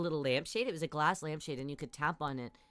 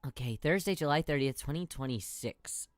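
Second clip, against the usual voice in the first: movie trailer voice; 4 semitones lower than usual. Shown as a demonstration. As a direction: read the date like a film trailer announcer. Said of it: "Should I say everything in movie trailer voice?".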